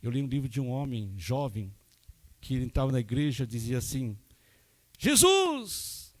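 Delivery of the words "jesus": high shouted call, held out; loud cry of Jesus. Retold or imitated. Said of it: "Gritava bem alto".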